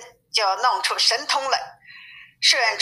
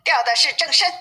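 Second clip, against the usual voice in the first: shouting from the rafters; 6 semitones higher than usual. A narrator's reading. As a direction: raise the alarm from the beam. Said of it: "八戒又在梁上喊道".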